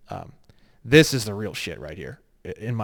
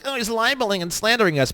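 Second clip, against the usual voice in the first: higher, whiny mock of an offended official; mocking DMV official; 9 semitones higher than usual. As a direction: mimic them as prissy and offended. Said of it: "and they're like".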